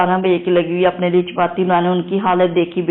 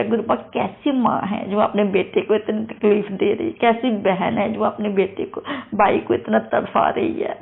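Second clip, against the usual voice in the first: tearful prayer; 3 semitones higher than usual. Retold or imitated. Praying to guru in distress over husband, tearful pleading. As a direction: beg the guru, voice close to crying. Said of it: "फिर मैं बहुत ज़्यादा रोई".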